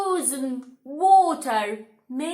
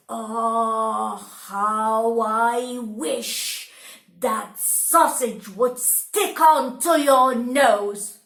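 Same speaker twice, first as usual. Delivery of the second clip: slow bitter wish, louder at the end; furious wife; 2 semitones lower, 5 dB louder than usual. Acted. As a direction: spit out the wish. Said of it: "Lara was furious".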